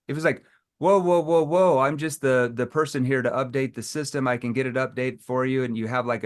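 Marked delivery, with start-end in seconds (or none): 0.8-5.6 flat, mechanical robot read; fast talking robot. Shown as a demonstration. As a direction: rattle it off like a machine. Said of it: "a tone that sounds like this, like a talking fast robot".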